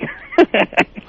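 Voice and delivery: evil laugh. Acted. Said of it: "That evil laugh".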